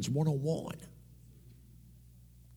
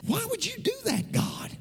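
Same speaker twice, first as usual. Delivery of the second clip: anguished cry. Retold or imitated. His inner plea to God.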